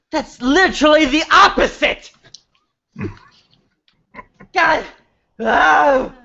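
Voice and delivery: high, laughing in disbelief. Real, not acted. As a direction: crack up at the line. Breaking up laughing mid-scene.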